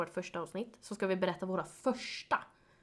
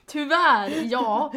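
laughing; 4 semitones higher, 8 dB louder, much slower than usual. Real, not acted. Joking self-praise.

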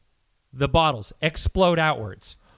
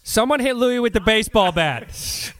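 Louis impression; 5 semitones higher than usual. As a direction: do a raspy Louis Anderson bit. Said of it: "I can't keep doing the Louis impression".

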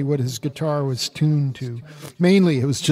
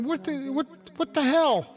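exasperated; 10 semitones higher than usual. Retold or imitated. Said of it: "and I'm going".

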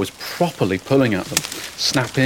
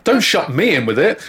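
panicked; 6 semitones higher, 4 dB louder than usual. Acted. Panicked stepdad fleeing.

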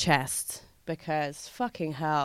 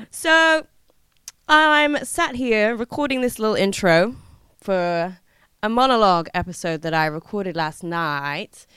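usual speaking voice

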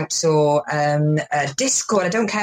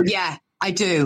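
slow, deliberate confession into camera; intimate menace. Shown as a demonstration. Comic answering about the knife right into camera, slow menacing admission. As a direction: lean in and admit it slowly. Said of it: "I lean forward right into the camera".

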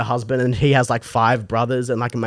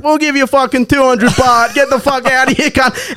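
high-pitched indignant tirade; mock angry uncles; 10 semitones higher than usual. Uncles refusing to pay the driver, mock angry. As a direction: imitate relatives seeing someone off.

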